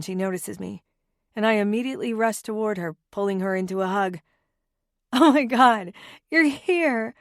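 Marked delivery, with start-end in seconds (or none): 5.1-7.1 high excited squeal of delight; thrilled squeal, pitched up. A narrator's reading. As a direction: squeal it at a best friend. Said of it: "I squeal".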